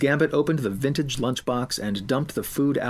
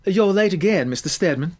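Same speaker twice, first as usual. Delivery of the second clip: higher, louder scolding teacher; nagging teacher; 6 semitones higher, 5 dB louder than usual. Acted. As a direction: catch him late, sharp and nagging.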